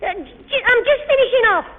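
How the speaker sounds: stuttering, caught-out excuse; flustered stammer. Acted. Boy stammers an excuse to his nosy sister. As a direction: trip over the words, caught out.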